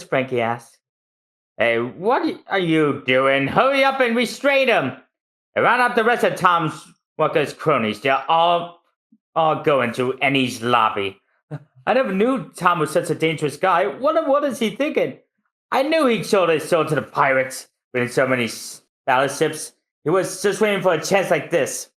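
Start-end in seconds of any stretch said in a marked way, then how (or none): 1.6-5.0 villain shouting at the guards; villain order. Acted. 5.5-21.9 high, fast gossip; lightly voiced sneering official. Gossiping characters.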